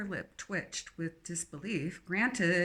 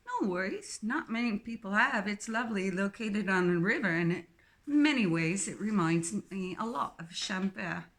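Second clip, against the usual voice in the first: put-on strong English accent. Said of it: "her English accent strong".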